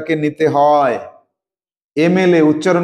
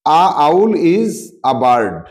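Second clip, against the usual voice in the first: slow reading of the sentence; much slower than usual. Shown as a demonstration. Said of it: "আউল উচ্চারণ কি হচ্ছে?".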